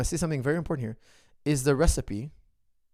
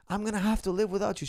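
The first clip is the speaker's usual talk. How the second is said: crying daughter; 8 semitones higher, faster than usual. Retold or imitated. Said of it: "She's crying".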